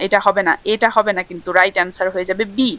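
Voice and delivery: normal talking voice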